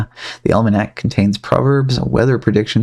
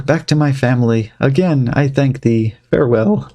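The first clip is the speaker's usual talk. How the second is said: lightly voiced old colonial man, grateful; Poor Richard; 3 semitones higher than usual. Freed Richard thanks the girl before leaving, lightly voiced. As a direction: thank her warmly and hurry off.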